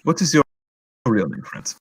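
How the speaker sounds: put-on questioning in a German accent; German-accented interrogator. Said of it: "you do the accent of that".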